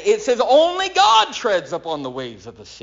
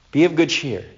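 calm assurance; 3 semitones lower, faster than usual. Shown as a demonstration. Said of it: "that's exactly how he said it".

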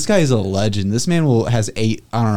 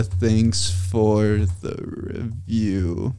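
slow dictation; 5 dB quieter, much slower than usual. Real, not acted. Typing a comment aloud.

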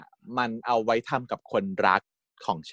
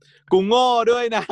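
high, slow comic admission; high, slowly drawn-out joking confession; 12 semitones higher, 5 dB louder, much slower than usual. Retold or imitated. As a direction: drag it out high, playing it for laughs.

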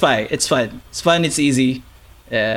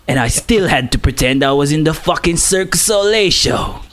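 put-on Cockney accent. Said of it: "you gotta do the Jason Statham accent".

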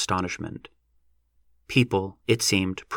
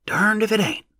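rustic country voice; 12 semitones higher than usual. A narrator's reading. Rustic onlooker at the dig.

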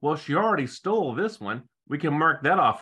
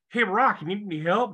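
eager bar guys; 6 semitones higher than usual. Retold or imitated. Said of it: "the guys in the bar are like".

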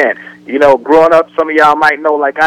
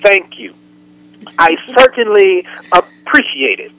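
proper polite voice; 3 semitones higher than usual. Retold or imitated. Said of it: "she wants you to say".

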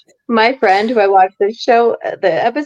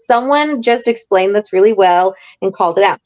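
excited relief; 2 semitones higher than usual. Retold or imitated. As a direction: squeal it like finally someone said it. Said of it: "And I was like".

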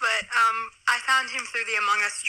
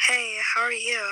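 put-on girl voice; 2 semitones higher, 4 dB louder than usual. Shown as a demonstration. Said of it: "make my voice sound like a complete fucking girl".

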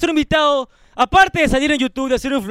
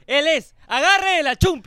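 announcer hype; 2 semitones higher, slower than usual. Acted. Introducing the guest to viewers, hyped announcer. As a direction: call out the name like a ring announcer.

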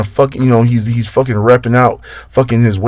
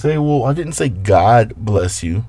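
mocking the friend; slower than usual. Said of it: "This dude really told me to my face".

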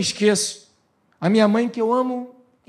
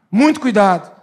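louder repeat of muito cuidado; louder warning; 7 dB louder than usual. Real, not acted. Pastor repeating the caution to the church, louder. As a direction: press the warning harder.

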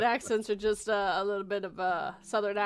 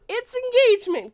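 higher, louder punchline; emphatic; 12 semitones higher, 7 dB louder than usual. Real, not acted. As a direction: land it with a triumphant lift.

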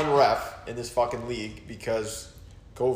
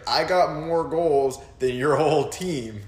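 drawn-out, higher-pitched cocky chirp; mock boastful taunt; 4 semitones higher, 3 dB louder, much slower than usual. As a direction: imitate a rival bragging on the ice. Acting out opponent's boastful chirp.

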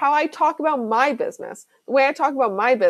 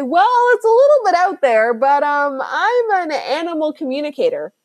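unsure client; 4 semitones higher, 3 dB louder than usual. Pretend. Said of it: "And you say".

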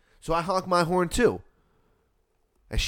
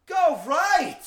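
very high, stretched mock holler; yelling out the window; 4 dB louder than usual. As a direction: imitate a woman yelling directions. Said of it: "She yells out the window".

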